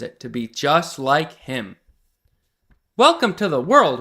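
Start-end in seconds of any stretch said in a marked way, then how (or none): 3.0-4.0 excited greeting. Acted. Pete greets his robot.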